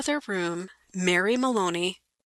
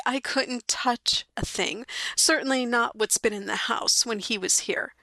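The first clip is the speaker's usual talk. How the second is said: mild begging; 3 semitones higher than usual. Acted. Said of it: "she begged".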